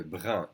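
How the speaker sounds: Brun ending on a nasal vowel, no N. Shown as a demonstration. Teacher showing the boy's form, nasal un. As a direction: say Brun with U N as one nasal sound. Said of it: "The U N together is un".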